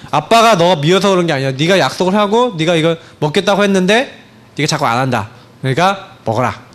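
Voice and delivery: mildly soothing father's explanation; gentle coaxing. Retold or imitated. Father calms his child after punishment, mildly coaxing. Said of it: "조금 이제 달래주면서".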